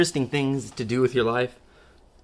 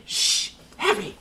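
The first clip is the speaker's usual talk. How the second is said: hushed; 4 dB quieter than usual. Acted. Skit, professor hushes Harry.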